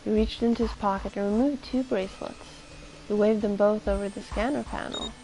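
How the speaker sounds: even, measured read-aloud of a tense scene; steady storyteller's reading; story narration. A narrator's reading. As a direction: narrate it like a novel, restrained. Reads the game's narration aloud.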